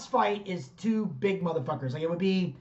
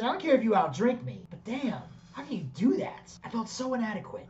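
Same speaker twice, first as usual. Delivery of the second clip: mock inadequacy; 6 semitones higher than usual. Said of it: "He goes".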